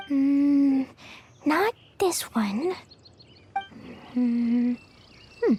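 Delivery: whispered murmur. Acted. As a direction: murmur it to yourself as you dig. Rummaging, murmuring to herself.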